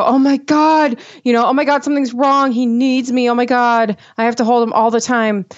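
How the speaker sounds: mock fretting over a fussing baby; anxious parent. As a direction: lightly act out a worried new mom. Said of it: "I'm a super anxious person".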